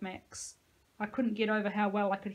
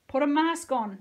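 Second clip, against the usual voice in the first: loud, higher desperate plea; pleading; 6 semitones higher, 8 dB louder than usual. Acted. Nico pleads with Josie to put on a mask. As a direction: beg her through the mask. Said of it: "Nico pleaded through his own".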